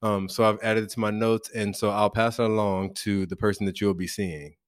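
low, soft professional wrap-up; subdued, businesslike sign-off; imitated intake worker. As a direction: imitate a polite intake worker closing the session quietly. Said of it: "And then she says".

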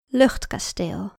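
slow, deliberate title; slow title reading. Shown as a demonstration. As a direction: announce the title slowly. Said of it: "naar het verhaal".

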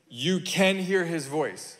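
slow, insistent stress on "can". Real, not acted. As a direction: drive home "can" word by word. Insisting against an objector's doubts.

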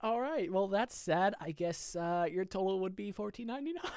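mock-awkward, drawn up high at the end; awkward cashier. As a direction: play an uncomfortable cashier pushing on with the total. Improvised awkward cashier after sad news.

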